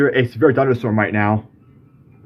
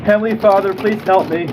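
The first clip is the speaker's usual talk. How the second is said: frightened prayer; 4 semitones higher than usual. Real, not acted. Frightened prayer during hailstorm.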